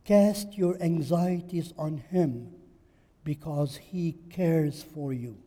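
slow, weighty reading of the verse; slow scripture reading. Shown as a demonstration. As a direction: lean on cast and cares, unhurried. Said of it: "The Bible says".

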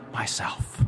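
very soft, low and hushed; soft whisper. A narrator's reading. The voice answers a third time, whispered softly. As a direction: barely let the word out, hushed. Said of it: "whispered so softly you could hardly hear it".

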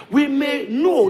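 slow emphasis. Shown as a demonstration. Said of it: "repeats phrase for emphasis".

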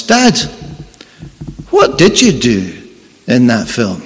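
put-on concerned child. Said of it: "says in a concerned voice".

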